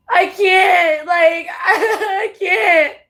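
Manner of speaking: broken, slow laughing sob; real helpless laugh through tears; laugh-crying. Real, not acted. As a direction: laugh and cry at once.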